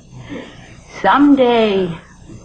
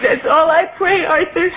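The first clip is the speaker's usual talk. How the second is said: guilt trip; 3 semitones higher than usual. Acted. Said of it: "That's a mother's prayer".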